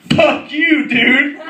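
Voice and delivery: high-pitched angry retort; imitated kid's outburst; mock defiant kid. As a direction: spit it back as an indignant child.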